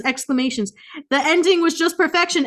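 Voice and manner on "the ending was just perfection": high mock gushing fan; gushing reviewer. Quoting a glowing review, high mock gush. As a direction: swoon it like a fan. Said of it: "this person said".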